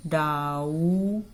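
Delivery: "doubt" as a long "dau", then the T; silent B in doubt. Shown as a demonstration. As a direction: say "doubt" drawn out, with no B sound. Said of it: "B का sound नहीं आ रहा". ("doubt" में B का sound नहीं)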